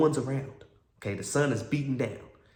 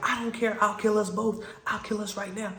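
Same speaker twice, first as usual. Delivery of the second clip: high-pitched imitation of her threat; mock frantic threat; 9 semitones higher than usual. Driver threatening her passenger, mock frantic. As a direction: push the voice way up, mimicking her. Acting out girlfriend's reckless threat.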